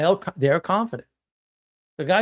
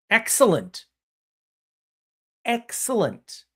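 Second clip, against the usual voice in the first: drawn-out approval; 6 semitones higher, slower than usual. Acted.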